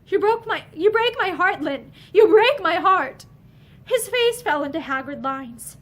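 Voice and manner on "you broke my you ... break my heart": heartbroken plea. A narrator's reading.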